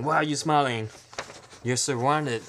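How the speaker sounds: a hint of a gloating gangster; taunting gangsters. Gangsters taunting the smiling woman, mock gloat. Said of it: "they're saying".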